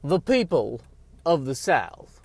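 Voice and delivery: mock Southern oratory; Southern accent. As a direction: proclaim it in a put-on Southern accent. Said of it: "try to do a Southern accent".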